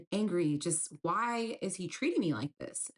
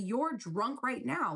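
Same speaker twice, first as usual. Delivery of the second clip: retold anger; 6 semitones higher, slower than usual. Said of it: "now I'm getting mad".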